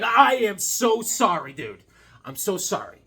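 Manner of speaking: retold gushing apology, slowing on "so sorry"; mock apology. Apologizing to the dude for taking his other eye, mock apology. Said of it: "I was like".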